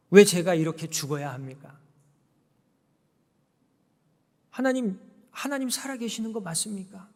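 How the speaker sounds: crying out to God in despair, half-acted; resentful crying out. Pastor in prison crying out to God, anguished plea. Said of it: "막 이렇게 원망하면서 울부짖었어요".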